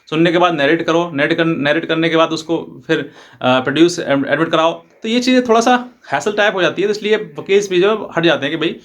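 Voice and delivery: ordinary talk, nothing marked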